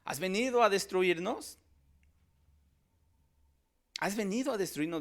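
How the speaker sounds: lightly voiced possessed man; retold demon's cry. Preacher retelling the demon confronting Jesus, lightly voiced. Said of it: "empieza a decirle".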